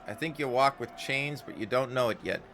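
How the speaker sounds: lightly voiced, anxious Scots tinge; worried Anna. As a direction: afraid for someone she cares for. Anna fearful for him.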